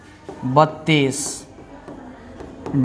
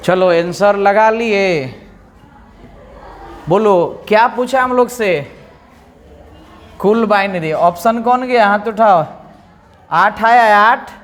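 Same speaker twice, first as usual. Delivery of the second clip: lively classroom questioning; 3 semitones higher than usual. Acted. Quizzing class loudly.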